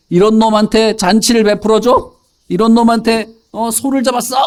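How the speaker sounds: acted outrage rising in pitch; indignant eldest son. Eldest son hears of the feast for his runaway brother, growing angry. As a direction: build from scornful disbelief to high, indignant questions. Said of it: "이러면서 화가 나기 시작한 거예요".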